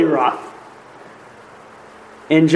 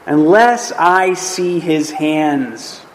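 "Unless I see his hands" very slow, word by word; bold declaration; much slower than usual. Acted. Thomas to the other disciples, boldly declaring "Unless I see his hands". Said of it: "the way Thomas boldly declares".

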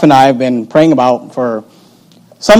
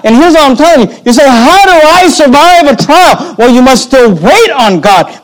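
impassioned preaching; 5 semitones higher, slower than usual. Real, not acted. Pastor teaching that Job worshiped through trial, impassioned preaching. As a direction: preach it slowly and forcefully, pitched well up.

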